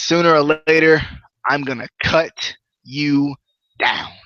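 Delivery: slow, spaced-out wrestler's threat; James Storm promo. Retold or imitated. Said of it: "James Storm says".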